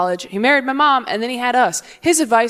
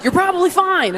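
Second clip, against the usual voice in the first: stranger online; 7 semitones higher than usual. Retold or imitated. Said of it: "someone from Arkansas is like".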